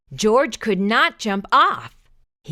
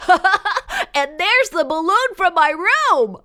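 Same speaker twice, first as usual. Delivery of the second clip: put-on high, loud child voice; excited little boy; 9 semitones higher, 5 dB louder, slower than usual. A narrator's reading. Boy spotting his balloon on the tree. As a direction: call out his discovery. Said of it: "A boy laughed".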